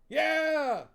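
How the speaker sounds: high, loud cackly chorus; witches' chorus. Acted. Witches answering Huel in a high loud chorus. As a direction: shout back like eager hags.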